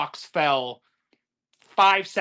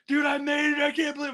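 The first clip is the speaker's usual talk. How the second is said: retold joyful shout; 7 semitones higher than usual. Surviving the block challenge, hugging Tim.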